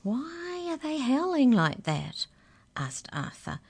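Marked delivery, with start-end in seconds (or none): 0.0-2.3 terrified. Acted. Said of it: "now quite white with terror".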